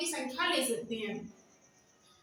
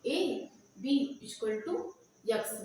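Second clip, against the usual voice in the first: very slow, each word drawn out as if dictating: A B equal to; teacher slowly dictating A B equal to; slow dictation pace; 3 semitones lower, much slower than usual. Shown as a demonstration. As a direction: spell it out slowly for the class to write down. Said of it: "इसको अच्छे से लिख लेते हैं".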